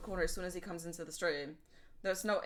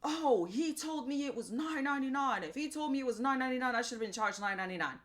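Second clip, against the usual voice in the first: mock whiny rude customer, higher and quick; pissy customer; 5 semitones higher than usual. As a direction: sneer it like a pushy customer who thinks he was cheated. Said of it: "getting all loudmouth with her and getting all pissy".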